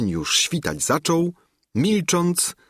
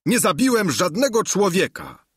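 higher, plaintive peasant voice; weary Sancho; 10 semitones higher than usual. A narrator's reading. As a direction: beg for wine, worn out. (Sancho zmęczony, żałosny)

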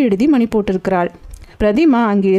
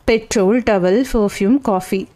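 Petrol, towel, perfume, coffee evenly set apart, stepping down to the end; separated list. Acted. Lawyer separating the two lists for his junior, item by item. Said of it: "பிரித்து காட்டுகிறேன், கவனி".

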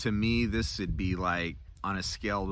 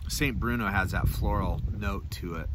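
talking around pipe stem; pipe in mouth. Real, not acted. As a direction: lips clenched on stem. Seen 2: Pipe stem clenched in his mouth; briefly removed near 5.7-6.4 s.

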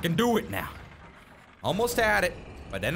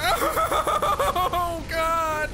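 high laughter running into the words; laughing exclamation; 4 semitones higher than usual. Real, not acted. Player overwhelmed by the game, laughing. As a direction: laugh helplessly, then cry out.

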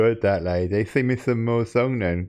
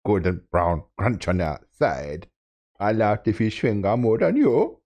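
mock Jamaican accent. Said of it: "I'm not very good at the accent".

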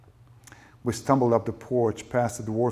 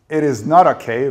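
loud, raised-pitch furious retort; furious wife shouting; angry shout; 4 semitones higher, 12 dB louder than usual. A narrator's reading. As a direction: shout back in outrage. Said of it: "Rachel shouted".

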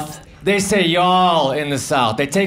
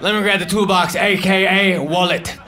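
mock cocky. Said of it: "I get all cocky".

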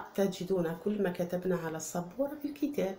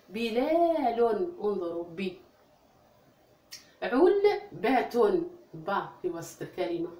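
model word reading. Shown as a demonstration. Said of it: "نعيد".

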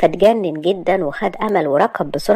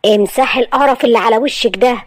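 sharp order; 4 semitones higher than usual. Acted. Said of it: "قال لها بحدة".

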